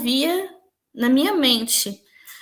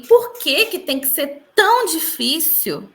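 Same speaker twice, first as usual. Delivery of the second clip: pleading question; 4 semitones higher than usual. Retold or imitated. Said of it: "eu fiz com a mão assim".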